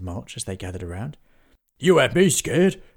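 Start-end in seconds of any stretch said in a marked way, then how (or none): 1.8-2.8 loud, excited and breathless; puffed happily. Acted. Henry congratulating Willie, puffing happily. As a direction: burst out with relief. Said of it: "puffed Henry, happily".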